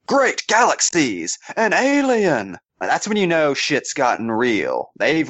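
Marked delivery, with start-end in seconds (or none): 0.1-2.6 mock-heroic gasp of astonishment, pitched high; shocked exclamation. Co-host voices a comic hero seeing an alien, hammed-up shock.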